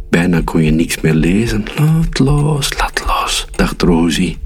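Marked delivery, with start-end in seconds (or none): 1.8-3.5 whispered thought. Acted. Rosie's repeated inner thought.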